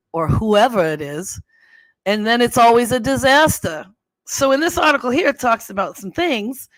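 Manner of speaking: put-on East Coast storytelling accent; Jersey accent. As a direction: tell it chattily in a mock Jersey accent. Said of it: "okay, I'm gonna do my accent".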